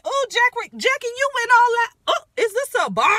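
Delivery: high, loud, over-the-top mocking a castmate; extra mock voice. Mocking a castmate stepping off the bus, high and extra. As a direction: ham up a shady, extra castmate getting off the bus. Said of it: "they was so extra".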